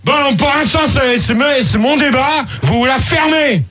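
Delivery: angry order. Real, not acted. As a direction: insist crossly over the hecklers. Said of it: "demandé si gentiment qu'on va tous hurler".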